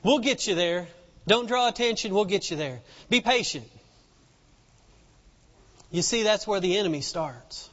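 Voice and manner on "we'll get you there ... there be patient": lower, mildly placating voice; acted friend calming someone down; hushing friends. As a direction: gently talk them out of making a scene. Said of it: "their friends were like".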